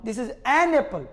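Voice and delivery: this is an apple slowly linked; slow demo. Shown as a demonstration. Teacher modelling linked an apple for class. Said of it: "जो sound होगा".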